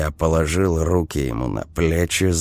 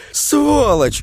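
furious scream; 4 dB louder than usual. Acted. Vika attacking Vova.

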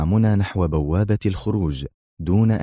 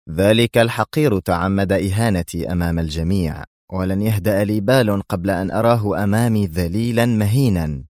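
ordinary delivery, nothing marked

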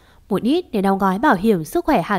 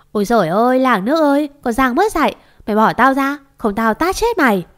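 higher-pitched, mildly acted outcry; yelling out; 3 semitones higher, 3 dB louder than usual. Mother-in-law yelling as the neighbour pulls her hair. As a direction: cry out to the neighbourhood in outrage. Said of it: "Bà Thu hét ẩm lên".

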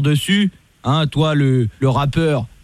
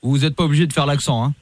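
lightly voiced lower police commissioner; stern police officer; 3 semitones lower than usual. Host posing as police commissioner calling the rapper, stern. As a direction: play a stern cop on the phone. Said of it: "Je suis le commissaire Latour".

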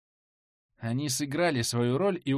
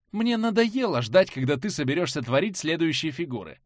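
impatient taunt; 3 semitones higher, 3 dB louder than usual. Acted. Heroine taunting the shaman.

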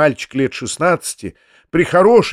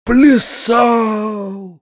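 higher horrified exclamation; horrified cry; 8 semitones higher than usual. A narrator's reading. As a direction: gasp it out in horror. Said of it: "вскрикнул в ужасе дядя". (вскрик ужаса)

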